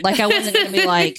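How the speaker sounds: high-pitched talk through giggles; laughing while talking. Real, not acted. Teasing co-host while both laugh.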